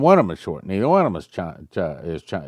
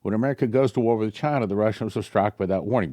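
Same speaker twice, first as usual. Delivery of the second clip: quick re-read. Shown as a demonstration. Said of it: "It may be that this is the angel talking".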